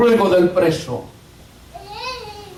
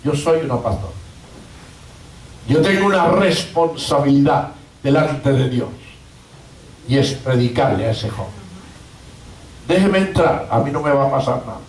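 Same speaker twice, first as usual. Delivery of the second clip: pastor's plea; 4 semitones lower than usual. Retold or imitated. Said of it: "esta pastora le dijo".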